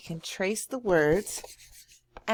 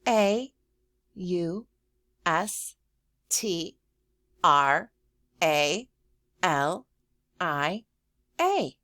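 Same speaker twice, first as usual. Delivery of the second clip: teacher spelling out a word. Shown as a demonstration. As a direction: spell each letter for the class.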